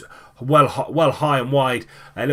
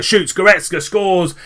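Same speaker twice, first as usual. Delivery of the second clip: higher, louder, drawn-out goal shout; excited goal call; 7 semitones higher, 5 dB louder than usual. Real, not acted. Commentator to viewers as Goretzka scores, excited call. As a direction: lift the voice as the shot goes in.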